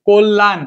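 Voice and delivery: কল্যাণ opening on o, "kol-lan"; doubled l. Shown as a demonstration. Teacher sounding out the word, কল্যাণ as "kol-lan". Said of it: "প্রথমে কিন্তু আমার অ উচ্চারণ হচ্ছে".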